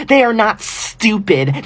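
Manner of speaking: slow, emphatic "not stupid"; indignant correction. Acted. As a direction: stretch out "not stupid" in offence. Defending exams indignantly.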